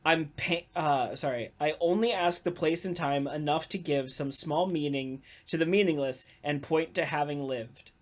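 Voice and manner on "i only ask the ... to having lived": poem reading. Shown as a demonstration. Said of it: "So here's the whole poem".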